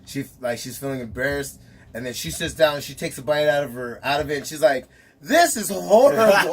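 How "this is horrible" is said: slow, loud, breaking into laughter; laughing disgust. Retold or imitated. Partner tasting her own soggy French toast, laughing. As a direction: laugh out the verdict on the food.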